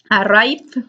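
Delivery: ARRIVED ending in a voiced D; final D sound. Shown as a demonstration. Teacher reviews the first ending, final D sound on arrived. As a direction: let arrived close on a clear D. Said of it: "la primera suena como D".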